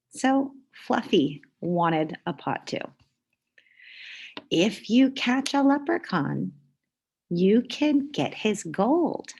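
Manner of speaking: lively storybook read-aloud; reading to children. A narrator's reading. Teacher reading a picture book to the class, lively. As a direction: read it like story time for kids.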